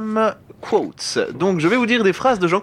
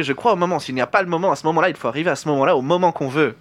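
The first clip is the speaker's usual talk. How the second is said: put-on Van Damme accent; faster than usual. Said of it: "tu fais l'accent québé-, euh, américain".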